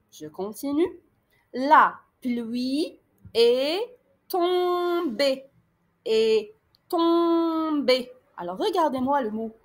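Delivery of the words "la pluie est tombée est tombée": slow dictation. Shown as a demonstration.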